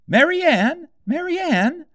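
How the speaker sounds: very high, loud rabbit calling out; White Rabbit calling. A narrator's reading. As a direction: shout for the maid from outside.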